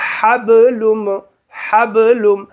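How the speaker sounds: حبلم, tight breathy throat h; big haa. Shown as a demonstration. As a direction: model حبلم, pharyngeal h. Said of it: "اب دیکھیے بڑی ہے".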